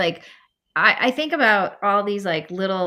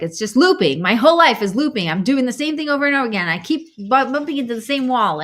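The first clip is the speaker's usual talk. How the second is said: louder, exasperated retold griping; mock fed-up rant; imitated complaining; 4 semitones higher, 5 dB louder, faster than usual. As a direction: complain urgently, imitating a frustrated guest. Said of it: "he was complaining about this thing".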